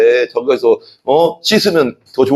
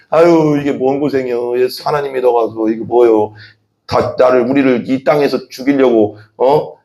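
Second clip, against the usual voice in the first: grumbling Israelites. Retold or imitated. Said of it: "하면서 막 원망했다고".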